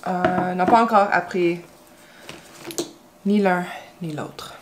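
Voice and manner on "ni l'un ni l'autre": whisper. Real, not acted. Aside about son.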